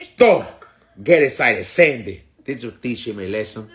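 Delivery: low, put-on Hispanic accent; mock Hispanic accent. Imitating a commenter plotting revenge, in a mock Hispanic accent. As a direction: play the commenter with a fake Spanish accent. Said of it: "he was on that shit going".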